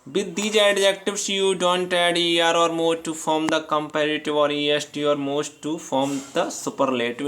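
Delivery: reading the rule aloud, word by word; slow, careful dictation pace; slow textbook reading. Acted. Teacher reading the rule to students, slow and deliberate.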